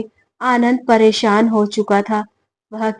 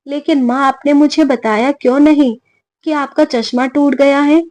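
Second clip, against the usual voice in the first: surprised; 5 semitones higher than usual. Acted. Son shocked mother hid broken glasses.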